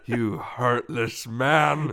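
very slow, drawn-out pretend accusation; lightly imitating an indignant co-host; mock reproach. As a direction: stretch out the hammed-up indignation. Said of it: "I was pretending to be you".

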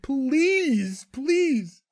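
high pleading please; begging. Retold or imitated. Jimmy begging his dad for the job back, high and pleading. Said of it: "it's just Jimmy begging".

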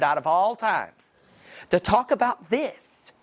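slow, drawn-out mock indignation; imitating angry wife. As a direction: stretch out the wife's reproach, pitch lifting at the end. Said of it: "that voice right there".

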